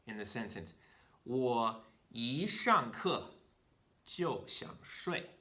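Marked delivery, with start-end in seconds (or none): 1.2-5.3 very slow, deliberate Chinese example; slow model reading. Shown as a demonstration. Teacher modelling the sentence slowly for learners. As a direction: spell it out slowly for the class. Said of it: "reads Chinese example sentence".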